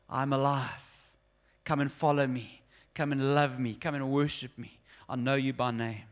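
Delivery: Jesus inviting the lost one back, tender. Acted. Jesus speaking to the listener.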